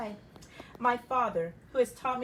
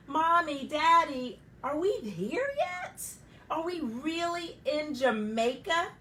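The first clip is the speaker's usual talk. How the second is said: put-on high, eager child's voice; a small girl bursting with excitement; excited little girl; 5 semitones higher, 5 dB louder, slower than usual. Child Primrose arriving, excited.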